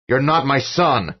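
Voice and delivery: high, loud, slow accusing yell; furious shout. A narrator's reading. Father denying the possessed boy, furious shout. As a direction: hurl it at the impostor.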